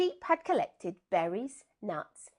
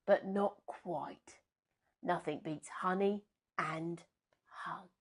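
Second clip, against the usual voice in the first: slow tender ending; slower than usual. Acted. Story's gentle moral.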